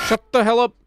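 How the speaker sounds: robotic toy megaphone voice; alien megaphone voice. Real, not acted. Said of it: "talking like the alien effect in those, like, kid megaphone toys".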